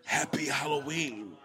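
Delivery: lightly voiced haunted-house host; low, soft scare-voice welcome; spooky greeting. Greeting trick-or-treaters from a hidden speaker, mildly spooky.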